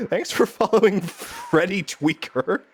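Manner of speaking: cracking up, high and slow; laughing. Real, not acted. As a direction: try to get the name out through real laughter. Cracking up at a follower's name.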